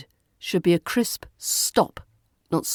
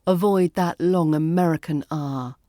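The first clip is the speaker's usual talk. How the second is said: ordinary delivery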